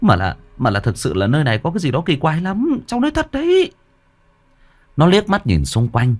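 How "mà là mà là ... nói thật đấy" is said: lightly voiced worker, a touch of fear, stumbling; stammering worker. Worker Vinh pleads with boss that the place is strange, mildly stammering. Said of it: "Thằng Vinh lắp bắp".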